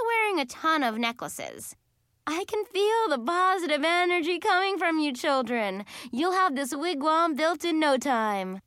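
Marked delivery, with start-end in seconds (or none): 2.3-8.6 high, airy-fairy encouraging leader; gushing Mistress Carol. A narrator's reading. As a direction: gush encouragement at the children in a raised pitch. Voices Mistress Carol encouraging children.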